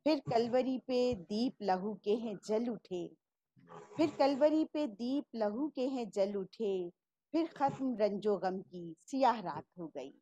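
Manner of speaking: measured poetic recital; poem recitation. Acted. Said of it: "جو کہتے ہیں".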